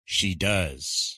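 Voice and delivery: She does. falling, weight on does; teacher modelling the reply; falling answer. Shown as a demonstration. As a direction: settle down on does. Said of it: "we answer with".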